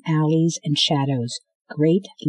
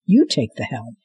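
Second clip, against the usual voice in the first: lower, curt command; man giving the girl an order; gruff order; 4 semitones lower than usual. Acted. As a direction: hand off the job gruffly. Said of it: "the man said".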